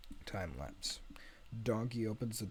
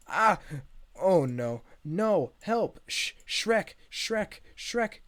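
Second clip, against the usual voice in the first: high, loud panicked cries for help; freaking out; 10 semitones higher, 12 dB louder, much slower than usual. Acted. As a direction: yelp in escalating alarm. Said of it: "Donkey starts freaking out".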